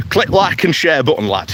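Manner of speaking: put-on light Yorkshire accent, "click" stressed, falling at the end; a cheeky Yorkshire sign-off with "click" punched and a falling tune. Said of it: "take my Yorkshire accent off".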